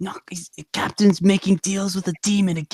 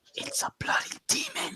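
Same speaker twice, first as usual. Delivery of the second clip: very quiet, slow, breathy, hushed whisper; 14 dB quieter than usual. Whispering back to a companion who asks what it is: whispering. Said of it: "I'm gonna whisper back".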